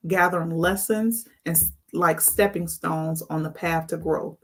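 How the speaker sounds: calm, scripted sign-off read; outro read. Acted. Host closing the episode for viewers, calm scripted read. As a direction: wrap up the show like a host.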